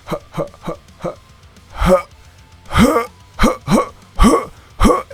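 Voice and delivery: clipped hut bursts, rising; hut exercise. Shown as a demonstration. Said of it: "We say the word hut".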